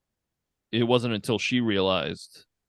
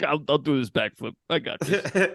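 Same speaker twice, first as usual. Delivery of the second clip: cocky; 5 semitones higher than usual. Retold or imitated. Mocking De Niro's bravado.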